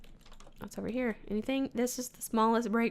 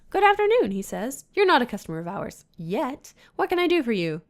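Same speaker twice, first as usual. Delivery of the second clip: eager broker voice; 3 semitones higher, 8 dB louder than usual. Acted. Game broker greets the detective.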